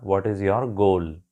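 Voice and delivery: very slow, each word laid out: What is your goal; slow teaching read of What is your goal; American example question. Shown as a demonstration. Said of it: "but American आपसे पूछेगा".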